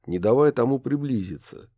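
usual speaking voice

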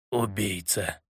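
low, soft, heavy accusation; brand him a killer darkly; grim accusation. A narrator's reading. Kubatai gloomily accusing Watson of murder. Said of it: "мрачно глядя на меня".

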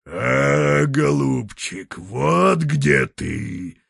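slow, lightly voiced bear roar. A bear pokes out its snout and roars at grandfather. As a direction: drag it out like a bear, mildly. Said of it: "заревел медведь".

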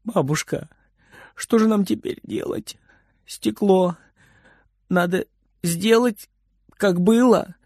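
sniffling sadly. Acted. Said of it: "Фридер горестно всхлипывает".

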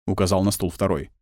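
ordinary delivery

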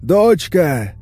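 high, loud, drawn-out terrified pleading; panicked father wailing, words stretched out; hysterical falsetto. A narrator's reading. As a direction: beg at a scream to be let in. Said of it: "Истерический фальцет в перепуганном до усрачки крике".

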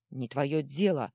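loud, slow, emphatic retort; firm rebuff. Acted. Two companions answer a jibe, loud firm rebuff. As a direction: shut the question down firmly. Girl and gnome rebuff the taunt.

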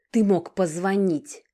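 sharp, loud, slow snap; stubborn daughter snapping at her father; snapped. Acted. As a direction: cut him off hard. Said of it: "отрезала упрямая блондинка".

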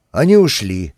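ordinary delivery

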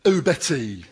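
lightly voiced dithering Frank Spencer; a hint of Frank Spencer's whiny bumble. Officer impersonating Frank Spencer to interrogate suspect, light impression. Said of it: "I'll do it as Frank Spencer".

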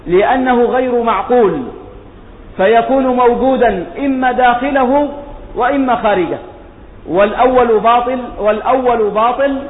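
formal recitation of a scholarly text; reading text aloud. Real, not acted.

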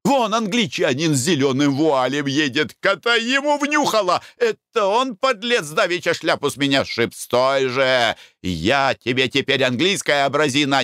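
angry shout. Acted. Spotting the Englishman who knocked hat.

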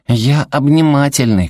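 put-on high, slow little-kid voice; small child's earnest boast; four-year-old boy. A narrator's reading. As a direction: proudly tell grandma, like a toddler. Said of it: "сообщил он ей года в четыре".

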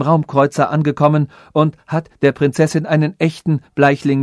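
dismayed sage. Acted. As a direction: rush the bad news to the prince. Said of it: "Bestürzt lief der weise Polyphases".

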